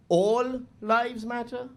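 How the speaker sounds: drawn out slowly in disbelief; slow, sarcastic repeat; slow incredulous. Shown as a demonstration. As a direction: stretch it out, mocking disbelief. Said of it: "It's like, really?".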